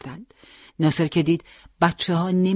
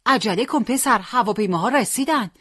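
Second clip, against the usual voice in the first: higher, pressing warning; alarmed, raised-pitch urging; urgent call; 7 semitones higher than usual. A narrator's reading. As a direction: hurry the boy along before danger hits. Urging Hossein as planes arrive.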